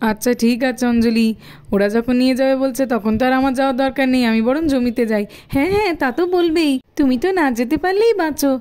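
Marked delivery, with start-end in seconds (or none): 0.1-5.2 lower, drowsy father grumbling from bed; a lazy husband who just wants to sleep; sleepy father. Acted. Father agrees, goes to field.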